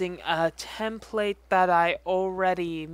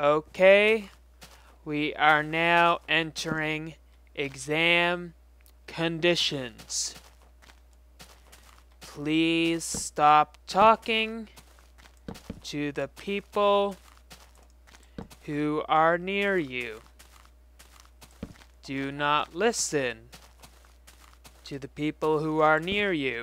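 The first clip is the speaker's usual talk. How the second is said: put-on very slow, drawn-out voice, lower pitch; 3 semitones lower than usual. The speaker imitates the person announcing exam rules today: imitating a very slow voice. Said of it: "talking in a very slow voice".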